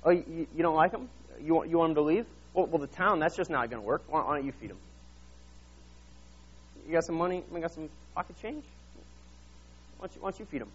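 lightly voiced, softening, teasing Jesus; casual Jesus. Jesus nudging the disciples to feed the crowd, hushed and casual. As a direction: chat them down gently, half joking. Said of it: "Jesus is like".

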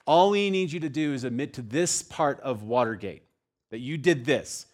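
prosecuting attorney. Retold or imitated. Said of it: "prosecuting attorney comes to him and says".

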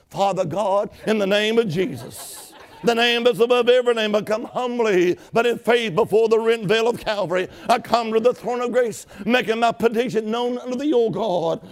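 lightly voiced reverent prayer; formal prayer. Shown as a demonstration. A hint of the prayer the preacher wanted the biker to say. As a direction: pray it humbly and formally. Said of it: "something like this".

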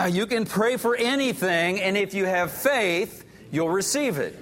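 congregation reading it again together; many voices in unison. Real, not acted. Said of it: "Let's do it one more time".

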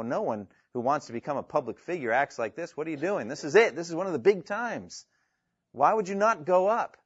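mildly exasperated questioning, rising in pitch; not understanding. Acted. Brothers urging Jesus to go to the feast, baffled. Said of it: "And they don't understand".

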